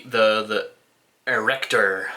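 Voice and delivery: dramatic announcer. Shown as a demonstration. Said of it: "Can you tell I wanna be a voice actor?".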